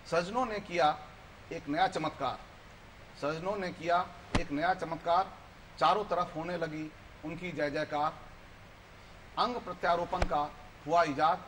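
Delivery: measured verse reading with pauses between phrases; poem recitation. Acted. Guest recites his own poem to the show's viewers, poetic recitation. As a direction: recite line by line, letting each phrase land.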